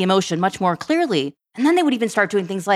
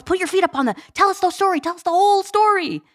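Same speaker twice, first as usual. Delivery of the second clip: put-on much higher, coaxing child voice; imitating eager kid; 11 semitones higher than usual. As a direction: coax mom like a little counselor. Mother voicing her eager kids.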